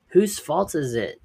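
high, loud shouted question; shouting back. Acted. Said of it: "they shouted back".

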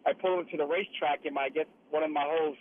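phone call from inside a moving truck; calling in from the cab of a tow truck. Real, not acted. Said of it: "So I'm in a truck right now".

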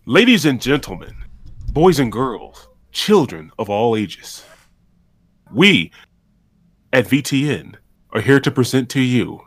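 a hint of a ringmaster barker. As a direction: hype up the merch like a circus host. Merch announcement, ringmaster intro.

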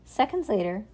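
put-on calm storybook reading for a child; story narration. A narrator's reading. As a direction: read it like a bedtime story.

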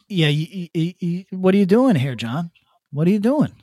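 put-on hammy stereotyped Asian accent, half joking; mock Asian accent. Podcaster voicing a Chinese official phoning John Cena, mock Asian accent. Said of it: "That's my Asian voice".

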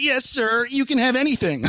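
high, meek mock people-pleasing; hammed-up servile squeak; eager submission. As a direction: cave in completely in a small high voice. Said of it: "whereas normally in the past".

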